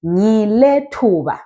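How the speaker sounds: "Ngile thuba" slowly drawn out; slow teacher's demo of "Ngile thuba"; model pronunciation. Shown as a demonstration. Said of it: "Then you say".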